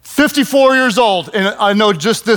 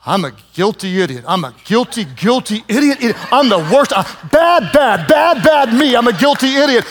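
hammed-up self-shaming. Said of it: "I was kinda following along".

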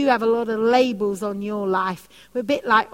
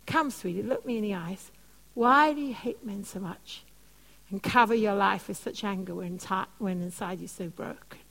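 softer, gentle coaxing; gently comforting the angry girl; tender plea; 3 semitones lower, 5 dB quieter than usual. Retold or imitated. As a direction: coax her like a hurt child.

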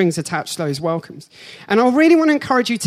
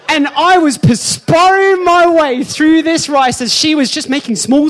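sweating guest forcing words through spicy rice; strained high voice; 7 semitones higher, 6 dB louder than usual. Shown as a demonstration. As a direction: speak as if the heat has choked you. Eating fiery rice, voice strained.

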